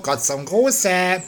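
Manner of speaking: hoch und sehr langsam: "Gott zum Gruße"; "Gruße" gedehnt, in höherer Naturwesen-Stimme; Hutzlibub. Acted. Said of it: "Hier ist Hutzlibub". (Hutzlibub grüßt feierlich, hoch und langsam)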